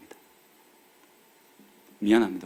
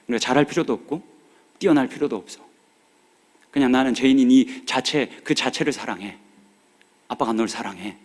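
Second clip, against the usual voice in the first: tender to daughter. Retold or imitated. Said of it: "얘 손을 잡고 말했습니다".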